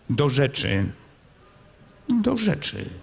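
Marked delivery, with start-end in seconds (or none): 2.2-2.9 calm prince. A narrator's reading. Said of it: "rzekł spokojnie książę Bogusław".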